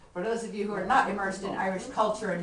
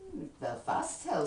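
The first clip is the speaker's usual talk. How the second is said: astounded. Acted. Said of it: "says I, quite astounded".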